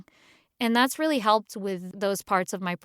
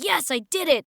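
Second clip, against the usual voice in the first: higher, louder mock victory cry; mock triumph; 8 semitones higher, 4 dB louder than usual. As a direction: crow about nailing the take. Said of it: "the takes, you're like".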